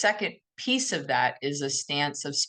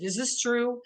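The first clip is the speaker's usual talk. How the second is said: a higher, sincere, curious question; genuine, not combative; 7 semitones higher than usual. Shown as a demonstration. Asking yourself honestly, not combatively: gentle and sincere. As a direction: ask it gently, without a fight. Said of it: "in a real genuine way, not in a combative".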